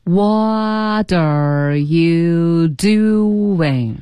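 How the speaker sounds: extremely drawn-out, every syllable held long; very slow repetition. Shown as a demonstration. Teacher leading repeated practice, extremely slow. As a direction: stretch each word as far as it goes. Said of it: "我们再说几遍".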